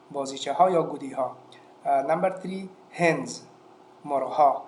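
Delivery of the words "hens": "hens" with the final s voiced as z. Shown as a demonstration. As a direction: model "hens" louder, ending in z.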